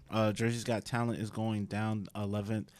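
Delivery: talking through a mouthful of food; words around a bite of food; mouth full. Real, not acted. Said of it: "food in my mouth".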